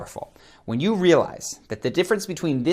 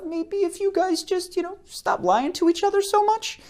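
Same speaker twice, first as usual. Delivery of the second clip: Jon Stewart impression. Coach imitating a comedian's suggestive joke tone. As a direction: lilt the suggestion up like a gentle joke. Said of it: "Somebody who used to talk like this all the time on the air was Jon Stewart".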